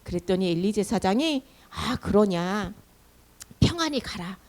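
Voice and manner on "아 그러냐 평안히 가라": measured, lightly acted priestly benediction; priest's blessing. Priest blessing Hannah after hearing her story, gentle solemn benediction. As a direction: give a blessing as an old priest. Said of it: "이렇게 축복 기도를 해주는데요".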